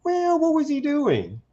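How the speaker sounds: sing-song high voice of a sellout at the water cooler; mock sellout voice. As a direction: draw it out high like a coworker pleasing the office. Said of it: "some black person may speak up and go like".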